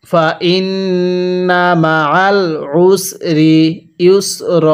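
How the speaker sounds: stretched syllables, measured Arabic reading; slow recitation. Shown as a demonstration. Teacher models the word slowly for learners to copy. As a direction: draw out ওয়া র ফা না evenly. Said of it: "পড়ুন".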